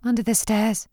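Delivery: reluctant. Acted. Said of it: "said Freya reluctantly".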